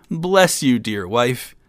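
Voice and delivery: loud, high grateful outburst; overjoyed thanks. A narrator's reading. Young king blessing his wife for the shivers, overjoyed. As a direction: burst out with delighted gratitude.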